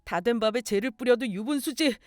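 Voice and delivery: aggrieved son blaming mother; acted resentful complaint; bitter lament. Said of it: "유산을 차지하지 못한다는 걸 한탄했고".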